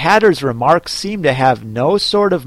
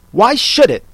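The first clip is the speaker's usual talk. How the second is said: ordinary delivery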